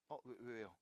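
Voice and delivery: low, very soft muttering; sheepish grumble. Real, not acted. Teacher caught in a slip grumbles while fixing it, low sheepish mutter. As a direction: mumble a defensive complaint under your breath.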